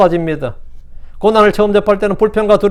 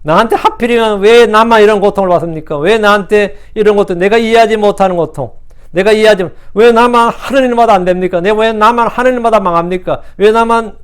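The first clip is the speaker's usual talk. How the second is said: higher, louder aggrieved plea to God; mock complaining prayer; 4 semitones higher, 4 dB louder than usual. Preacher imitating a suffering believer, higher, louder indignant complaining. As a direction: whine at God as if nothing ever goes right. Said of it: "이게 제일 많은 거예요".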